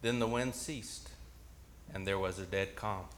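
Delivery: soft, low narration; hushed calm. A narrator's reading. Preacher narrates the storm suddenly ceasing, hushed and low. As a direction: let the voice drop into stillness.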